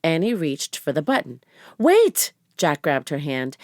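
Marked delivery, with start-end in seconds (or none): 1.8-2.3 high loud cry to stop; sharp warning. Acted. Jack stopping Annie at the airlock button, loud alarmed cry. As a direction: stop her before she presses it. Jack grabs her hand.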